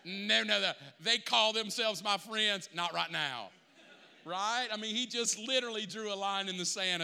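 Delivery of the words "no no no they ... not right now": a light Georgia redneck twang, half-joking; Georgia redneck accent. Retold or imitated. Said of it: "Georgia Redneck is".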